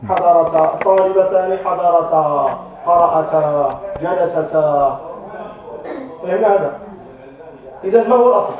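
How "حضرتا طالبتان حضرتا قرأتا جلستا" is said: slow example forms, each ending on a long held "ā" as in قرأتا; drawn-out dual alif. Shown as a demonstration. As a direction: stretch the final "ā" in حضرتا، قرأتا، جلستا. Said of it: "اتصل بها ألف الاثنين". (مدّ ألف الاثنين في آخر حضرتا، قرأتا، جلستا)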